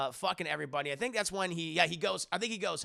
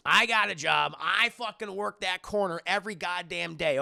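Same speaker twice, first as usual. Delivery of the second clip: mock yell; 6 dB louder than usual. Mom yells back.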